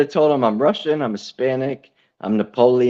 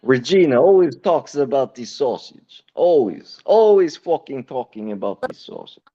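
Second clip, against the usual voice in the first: put-on Italian accent. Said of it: "fucking Italian".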